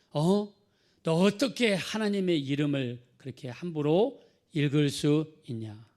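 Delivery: retelling a furious Jewish man, shouting; angry rebuke. Retold or imitated. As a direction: scold him for misusing God's name. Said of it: "막 그러면서 화를 냈다는 거예요".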